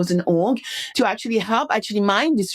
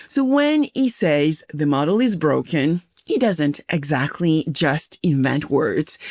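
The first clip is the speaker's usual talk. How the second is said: measured, slightly lower scripted host read; podcast intro read; 5 semitones lower than usual. Acted. Host introducing an insurtech guest to listeners, scripted intro read. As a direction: introduce the guest like a prepared announcer.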